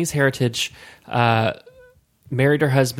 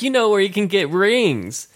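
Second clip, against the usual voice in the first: higher-pitched imitation of her Asian accent; imitated Asian accent; 7 semitones higher than usual. Coworker explaining what shop she meant, imitated Asian accent. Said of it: "when I imitate her voice".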